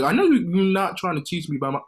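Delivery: high loud indignant retort. Retold or imitated. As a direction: push back loudly with disbelief. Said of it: "I'm like".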